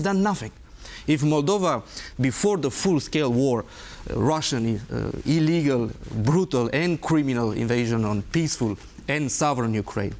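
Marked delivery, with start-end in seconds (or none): 5.2-10.1 "illegal", "brutal", "criminal", "peaceful" and "sovereign" each given deliberate weight; emphasized words. Real, not acted. Diplomat condemning the invasion, each of "illegal, brutal, and criminal" emphasized. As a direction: set off "illegal", "brutal" and "criminal" one by one, firmly. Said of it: "I emphasize the words".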